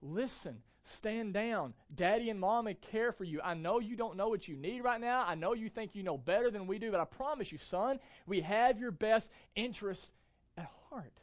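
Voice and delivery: a touch of soothing dad; calm a toddler as a loving father; gentle father. Retold or imitated. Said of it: "I'm a loving father".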